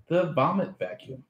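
breaking into laughter; laughing. Real, not acted. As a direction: say it while cracking up. Product reveal while laughing.

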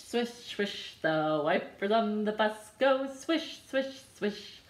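ordinary delivery

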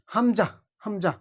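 হামজা said short, neither vowel drawn out; unstretched হামজা. Shown as a demonstration. Teacher showing the letter takes no lengthening, short হামজা. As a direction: keep both syllables of হামজা brief. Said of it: "টান হয় না".

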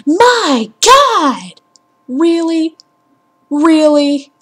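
hammed-up panic of a heroine; mocking Lara Croft. Gamer mocking Lara Croft's panic, high and loud. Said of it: "and she's like".

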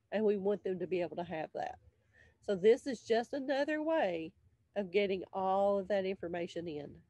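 stuffy, blocked-nose sound; nasal voice. Real, not acted. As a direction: talk through a congested nose. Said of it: "I sound so nasally".

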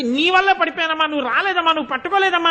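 a hint of a sulky toddler blaming mom; blaming little child. Preacher voicing a toddler blaming his mother, mildly whiny. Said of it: "అని అమ్మని నింద చేస్తాడు".

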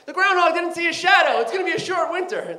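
high, happy announcement, half laughing; imitating cheering crowd. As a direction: announce it like great news. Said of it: "They're like".

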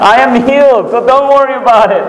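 high, animated imitation of her insisting; emphatic reassurance. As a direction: insist it high, for comic payoff.

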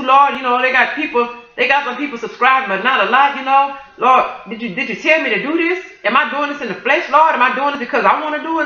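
re-enacted anxious plea to God; pleading prayer. Retelling last night's prayer to the Lord, pleading for confirmation. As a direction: beseech the Lord, question after question. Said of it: "that's how I was talking to him and praying and crying out to him".

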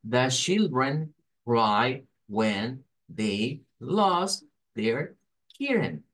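put-on "The children cry when they lost their kitten" slow, each word stressed, falling on "kitten"; very slow word-by-word beats, dropping at the end of "kitten"; sustained stress intonation. Shown as a demonstration. Teacher models sentence intonation, stressed throughout then falling. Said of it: "se mantendría con una entonación bastante stress".

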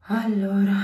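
ordinary delivery

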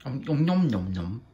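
munching sounds with a full mouth. Real, not acted. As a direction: talk through a mouthful of bread. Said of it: "It's rude to talk with your mouth full".

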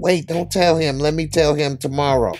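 high, loud hurried interruption; urgent request. Retold or imitated. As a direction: stop someone before they spill news. Terry stops her telling him.

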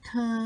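เธอ with an aspirated T; T as Thai ท. Shown as a demonstration. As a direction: start เธอ with a puff of air on the T. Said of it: "ทีออกเสียงทอทหาร". (ออกเสียง เธอ ด้วย ท ทหาร)

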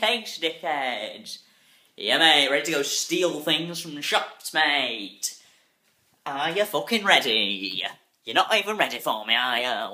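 swagger it like a cocky chav; cocky chav lad taunting the camera, hammed up; mock chav. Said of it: "you know how chavs".

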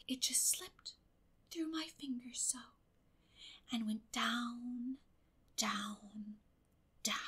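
breathless whisper, slowing down; dramatic whisper. A narrator's reading. Girl retells losing the brooch, whispered drama. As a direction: hush it like a tragic tale.

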